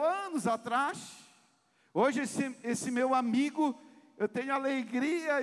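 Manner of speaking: fervent pulpit delivery; preaching at full force. Acted. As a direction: preach it out to the congregation.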